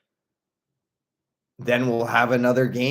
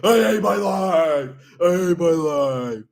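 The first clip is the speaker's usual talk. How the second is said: drawn-out wailing complaint; imitated kid tantrum; 3 semitones higher, 3 dB louder, slower than usual. Kid whose game account was taken away, mock tantrum. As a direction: wail it in hammed-up despair. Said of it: "when his mom takes his World of Warcraft account away".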